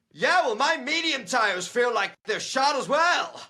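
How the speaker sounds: high, slow, hammed-up Canadian accent; mock Canadian driver, laughing through it; laughing Canadian driver impression. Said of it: "in such a loud Canadian way".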